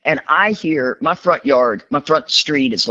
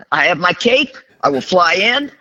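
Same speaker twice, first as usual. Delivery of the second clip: lightly voiced caped rescuer, pitched up; mock superhero; 4 semitones higher than usual. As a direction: declare it like a self-mocking hero. Plays herself as caped rescuer.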